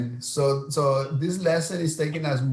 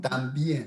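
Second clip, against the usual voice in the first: stress on the final syllable of también. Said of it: "this emphasizes the ending".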